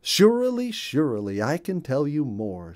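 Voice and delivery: high, bright bird chatter; a friendly chirpy little bird; cheerful bluebird voice. Acted. Bluebird tells the ducks about his home.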